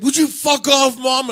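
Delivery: high-pitched exasperated shout. Retold or imitated. Son shouting at his mom over dinner, exasperated yell. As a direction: yell back at a parent, fed up. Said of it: "you're raising your voice at your mom".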